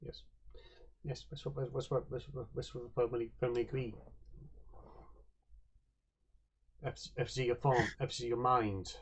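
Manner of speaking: halting, broken-sentence figure, lightly voiced; Whisper the effigy maker. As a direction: speak simply and haltingly, with pauses between phrases.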